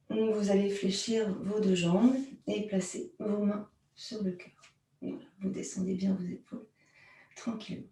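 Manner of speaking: hushed, calm, gentle guidance; soft soothing voice. Real, not acted. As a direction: ease them down softly. Calming cue, hands on heart.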